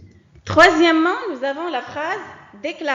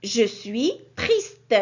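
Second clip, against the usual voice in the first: slow, lower, mildly sorrowful; sad exclamation; 4 semitones lower, 4 dB louder, slower than usual. Shown as a demonstration. Teacher showing pupils a sad sentence, slow and lower. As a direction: say it like a child feeling down. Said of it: "un sentiment de tristesse".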